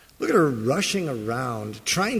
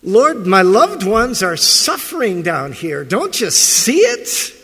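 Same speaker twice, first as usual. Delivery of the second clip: much louder, rising higher, anguished accusation; accusing cry to God; 5 semitones higher, 8 dB louder than usual. Retold or imitated. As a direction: cry out to the Lord about suffering loved ones. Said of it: "I've made accusations like that".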